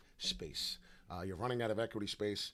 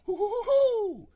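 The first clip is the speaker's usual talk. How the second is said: very high, loud, slow cartoon hoot with a laugh; Tigger hoot; 13 dB louder, slower than usual. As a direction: nail the bouncing cartoon tiger hoot. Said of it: "There it is".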